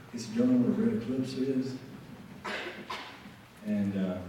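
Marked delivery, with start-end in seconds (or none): 0.4-1.7 softer imitated Alabama accent; quietly put-on Alabama Southern accent. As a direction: ask it like an Alabama local. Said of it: "do my best Alabama accent".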